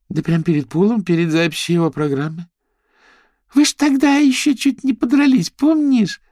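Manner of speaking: high, lively gossip; chatty girlfriend voice. Acted. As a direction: voice a bubbly socialite raving. Girls voiced high and loud.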